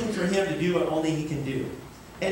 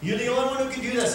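raised, pleading cry to God; 4 semitones higher, faster than usual. Retold or imitated. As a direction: call out like the crowd at the altar. Crowd crying out to God.

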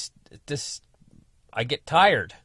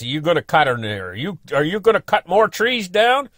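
indignant questioning; 8 semitones higher, 8 dB louder than usual. Retold or imitated. Angry neighbour questioning.

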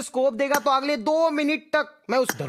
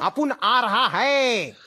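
slow laughing line; slower than usual. Real, not acted. Gamer laughing while announcing.

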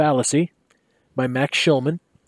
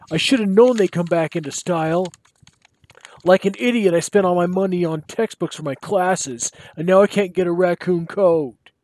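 put-on higher whining college boy; whiny student; 4 semitones higher than usual.

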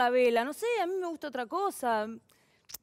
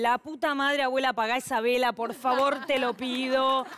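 exasperated plea; 5 dB louder than usual. Acted.

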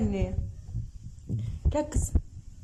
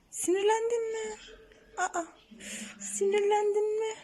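high squeaky teasing to a pet; 9 semitones higher than usual. Real, not acted. Owner teasing her grumpy bird, squeaky baby talk. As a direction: tease the cross bird in a squeak.

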